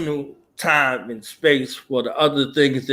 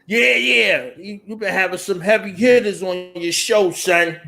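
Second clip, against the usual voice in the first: higher hyped fan voice; imitating fans; 5 semitones higher, slower than usual. Host mimics fans praising his heavy hitters, hyped. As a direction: play an overexcited fan. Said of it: "That's how they talk to you".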